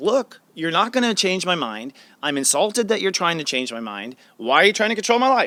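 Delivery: plain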